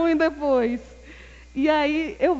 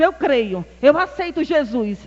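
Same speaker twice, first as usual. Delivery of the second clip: impulsive answer; 6 dB louder than usual. Retold or imitated. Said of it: "Eu respondo no impulso".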